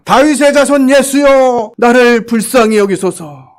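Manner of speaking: slow, high pleading cry; blind man crying out. Retold or imitated. Blind man cries out to Jesus, high pleading call. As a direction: call out desperately for mercy, slowly. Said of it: "소리를 지릅니다".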